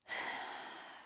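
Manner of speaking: long, soft audible exhale; settling sigh. Real, not acted. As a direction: let a slow breath sigh out. Settling in for meditation.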